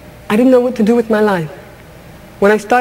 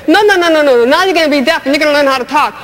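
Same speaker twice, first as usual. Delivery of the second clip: bossy voice of society; 3 semitones higher, faster than usual. Retold or imitated. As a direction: talk over her like society dictating her fate. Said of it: "society took me by the back of the neck and said".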